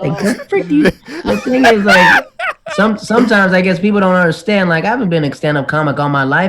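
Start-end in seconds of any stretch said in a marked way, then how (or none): 0.0-2.2 high, slow words through laughter; laughing. Real, not acted. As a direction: still cracking up as you talk. Cracking up at story.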